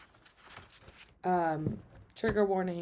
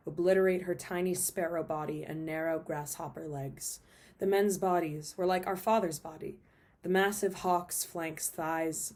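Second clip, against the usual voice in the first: poem reading; 4 dB louder than usual. Acted. Reads a poem aloud.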